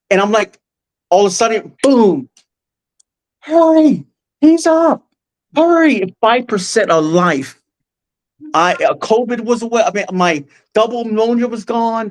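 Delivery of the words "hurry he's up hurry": high, loud urgent shout; urgent call. Retold or imitated. Staff rushing as he wakes up, urgent shout. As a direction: call out to the team, he's waking.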